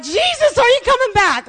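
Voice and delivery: high, loud cry to heaven; alarmed cry. Retold or imitated. Telling how they cried to Jesus during the fire, alarmed. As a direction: call out in retold panic. Retelling panic at the blaze.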